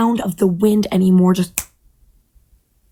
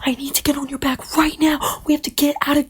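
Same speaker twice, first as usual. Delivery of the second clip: urgent panicky bird; 6 semitones higher, much faster than usual. Acted. Bird pleads urgently under attack.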